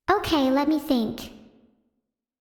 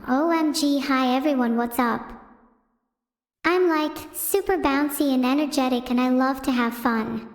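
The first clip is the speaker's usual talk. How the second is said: impression. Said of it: "And now here's my impression of Filion".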